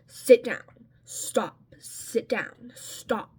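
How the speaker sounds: short, irritated orders, first one loud; irritably telling a child off; irritable commands. Retold or imitated. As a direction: scold a kid, retelling your own irritation. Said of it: "I'm starting to get irritable towards him".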